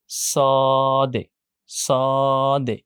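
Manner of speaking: drawn-out "স" closed with a short "দে"; basic letter sound. Shown as a demonstration. Teacher models the basic three-part sound, letter demo. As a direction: hold "স" long, then land lightly on "দে". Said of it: "basic সাউন্ডটা যেটা দাঁড়ায়".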